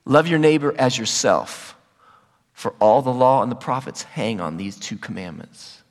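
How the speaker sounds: low, measured recital of scripture; scripture quotation. Retold or imitated. Quoting Jesus' second commandment.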